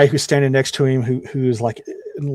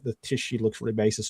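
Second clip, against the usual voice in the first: ordinary talk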